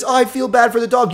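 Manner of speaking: mocking whine. Mocking critics' comment.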